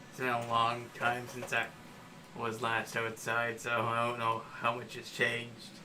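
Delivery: nerdy gnome wizard voice; nasal little gnome wizard; Zook's voice. Acted. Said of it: "it's Zook's voice again".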